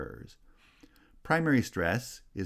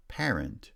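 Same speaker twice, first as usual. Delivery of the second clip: "Parent" with the first syllable strong; first-syllable stress. Shown as a demonstration. Teacher showing stress patterns, first-syllable stress on "Parent". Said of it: "has stress on the first syllable".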